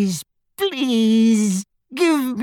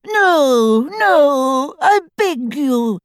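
very high, drawn-out sobbing plea; 13 semitones higher, much slower than usual. A narrator's reading. Tortured father begging his attackers, sobbing. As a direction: beg in a thin high wail. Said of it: "sobbed Xenophilius".

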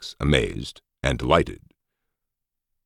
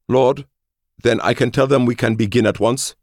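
high, excited petitioner's voice; high-voiced hopeful subordinate; eager underling; 11 semitones higher, 4 dB louder than usual. A narrator's reading. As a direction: ask your lord eagerly, pitched high. Eager underling asks his lord.

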